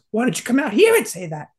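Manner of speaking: high mock challenge; Ernie. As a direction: imitate a friend daring you outside. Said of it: "And he goes".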